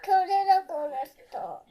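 loud, fast shouted reply; defiant yell. Real, not acted. Child yells back at scolding father.

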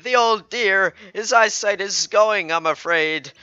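put-on high, drawn-out old lady voice; an old dear gossiping about her husband; chatty old wife. Elderly wife telling a stranger about Walter, high and slow.

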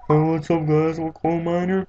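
high, loud gruff miner greeting; coal miner voice. Acted. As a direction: shout it like a cheery miner down a shaft. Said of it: "That's my coal miner voice".

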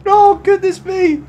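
laughing. Real, not acted. Recovering from laughing fit.

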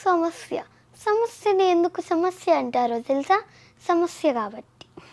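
put-on piteous delivery; pitiful. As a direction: plead gently for sympathy. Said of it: "దాన్ని జాలీగా చెప్పాలి".

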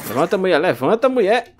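high, loud mock command; loud teasing order; taunting shout. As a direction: yell it to provoke her. Yelling at zombie to get up.

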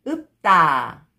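읍다 joined as 읍따, tense tt; read together. Shown as a demonstration. Teacher shows how it reads together, linked pronunciation. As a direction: run 읍다 into one word with a hard 따. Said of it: "Just pronounce".

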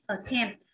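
"attempt" stressed on TEMPT; light first syllable, strong second in "attempt"; teacher's model of "attempt". Shown as a demonstration. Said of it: "nhấn vào âm hai".

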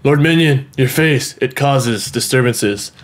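low, drawn-out pompous delivery; mock-solemn villain. Player addressing Lord Minion, mock-solemn villain. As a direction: intone it slowly like an overlord.

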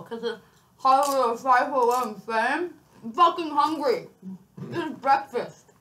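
talking through a mouthful; cheeks stuffed full. Real, not acted. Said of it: "talking with my mouth full".

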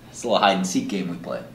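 ordinary delivery

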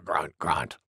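very low grunts; low piggy mumble after a sneeze; wild boar. Acted.

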